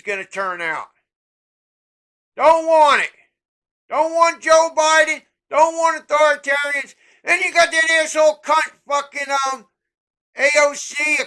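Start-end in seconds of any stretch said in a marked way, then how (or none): 2.4-9.3 louder, hammering each don't want; angry refusal. Real, not acted. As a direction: punch every refusal.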